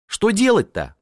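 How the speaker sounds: high flustered cry; a startled hostess jumping up. A narrator's reading. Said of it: "поднялась Анна Петровна". (встревоженно, высоким голосом)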